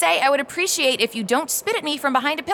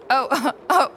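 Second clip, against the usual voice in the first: laughing helplessly; 8 semitones higher, 4 dB louder, much slower than usual. Acted. Bursts out laughing.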